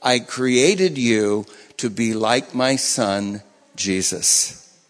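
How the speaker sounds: slow, low, solemn; voice of God. Retold or imitated. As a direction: speak slowly as God would. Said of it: "He heard God say".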